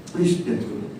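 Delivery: breathy whispered plea to God. Retold or imitated. Pastor retelling his plea to God, whispered pleading. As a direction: whisper it as a desperate little prayer.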